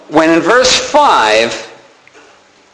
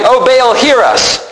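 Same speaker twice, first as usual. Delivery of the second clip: slow, higher imploring call; crying out; 4 semitones higher, slower than usual. Acted. Prophets crying to Baal till noon, drawn-out imploring call. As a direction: draw out a plea to an absent god. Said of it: "They kept crying".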